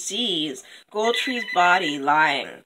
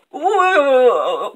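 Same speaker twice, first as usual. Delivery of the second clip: loud, raised cry to stop; Copper Tree; 4 semitones higher, 6 dB louder than usual. Acted. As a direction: halt them with a drawn-out whoa. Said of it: "Copper Tree is like".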